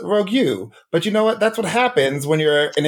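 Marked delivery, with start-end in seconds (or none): 0.0-0.7 "Rogue U" said as "rogue-you", two syllables; mistaken pronunciation. Shown as a demonstration. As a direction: misread the name as "Rogue U", with a YOU ending. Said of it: "I thought her name was".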